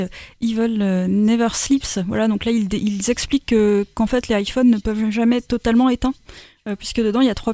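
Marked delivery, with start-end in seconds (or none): 0.4-2.0 study title in a French speaker's English accent. Real, not acted. Radio host reads English study title, apologizing for his English accent. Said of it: "pardon pour mon accent anglais".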